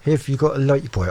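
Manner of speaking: a badly faked Norfolk accent that barely leaves his own voice; failed Norfolk accent. Shown as a demonstration. Radio host attempting the singer's Norfolk accent, badly done. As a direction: try the Norfolk accent and fall short. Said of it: "I can't do the accent. I'm terrible".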